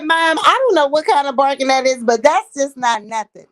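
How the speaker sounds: loud laughing dog voice. Pretend. Voicing the dog, loud high laughter.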